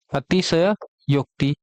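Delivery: अतिशयोक्ति drawn out, full स; slow careful demo. Shown as a demonstration. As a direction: stretch अतिशयोक्ति so students hear the स. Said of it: "ये बात ध्यान रखना". (अतिशयोक्ति धीरे, पूरा स)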